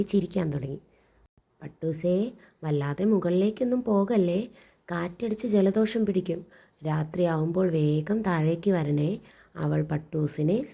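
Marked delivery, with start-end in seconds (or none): 1.6-9.2 big sister fussing over her kite; caring warning. Acted. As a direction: warn the kite gently but firmly. Girl's caring advice to kite.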